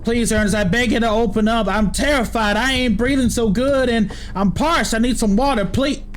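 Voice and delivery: put-on pleading old country man, begging at a door; begging Ernest to let him in, country accent. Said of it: "Why am I speaking in a country accent".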